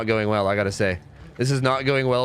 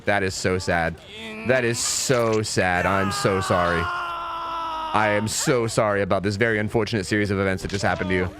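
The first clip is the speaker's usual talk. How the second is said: mock sympathy; 5 semitones lower than usual. Gamer consoling an opponent who failed, mock-sorry. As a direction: draw out the fake pity in a lower pitch.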